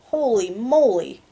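drawn-out, swooping holy moly; amazed exclamation. Real, not acted. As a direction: stretch it out in real amazement. Reader's own startled aside.

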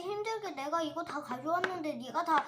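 loud tearful complaint; whiny crying. Pretend. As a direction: wail like a kid robbed of toys. 장난감 뺏긴 인형이 울먹임. (울먹이며 크게 투정)

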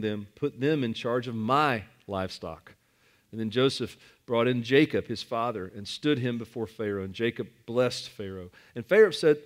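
measured, steady Bible reading; scripture reading. Acted. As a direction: read the passage to the congregation. Reads Genesis passage aloud.

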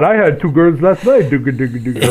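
lightly attempted, bad Swedish accent; sing-song fake Swedish trailing into gibberish; terrible Swedish accent. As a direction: do a half-hearted mock Swedish accent. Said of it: "That was a terrible Swedish accent".

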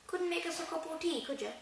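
a light try at the giant; attempted Hagrid. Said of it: "I can't do his accent".

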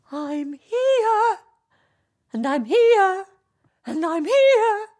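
high, loud ringing repeats; echoing voice. Acted. Echo answering Narcissus from the hills, high ringing call. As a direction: let each repeat ring like an echo.

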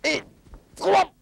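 big high yell to end the countdown; shouted count. Real, not acted. Calling the final count so the ball is thrown, shouted high.

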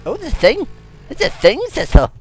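loud, high excited shout; excited discovery. Real, not acted. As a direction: call out a sudden find. Spots something in the game.

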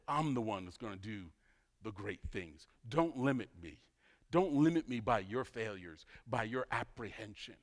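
soft, low voice of God; gentle reassurance. Retold or imitated. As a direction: drop down low and quiet to reassure. God reassuring Moses in retelling.

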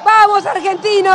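rousing rally call; booming balcony speech. Real, not acted. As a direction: call it out to the crowd. Rally chant to the crowd.

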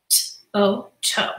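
soft sounding out of T-o; T-o sound by sound, then toe; kids' answer. Shown as a demonstration. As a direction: tap out each sound quietly like a pupil. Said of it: "This is what they're telling me".

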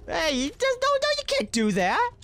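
high panicked protest; being chased. Real, not acted.

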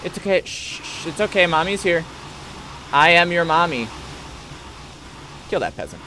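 lightly soothing mommy; soft bedside voice. Pretend. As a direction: hush them like a gentle mom. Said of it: "Now I'm a soccer mom".

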